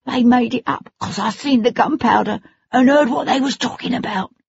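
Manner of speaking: put-on high pleading young Cockney boy; distressed boy. A narrator's reading. Frightened boy pleads innocence to his lord. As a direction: swear your innocence, desperate.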